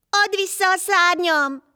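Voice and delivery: high, loud call after someone leaving; demanding her wings back, high and loud; shouting after him. A narrator's reading. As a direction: yell it after him as he walks off, pleading. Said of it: "kiáltott utána Lotilkó".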